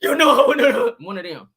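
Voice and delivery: high, loud laughing half-sob; laughing mock cry. Real, not acted. To her viewers picturing the tax bill, laughing mock cry. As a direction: laugh through a fake ugly cry.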